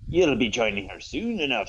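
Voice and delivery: lightly voiced pirate; a touch of menacing pirate; Ahab. Pirate villain threatening Scott Summers, mild pirate voice. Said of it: "that's my pirate voice".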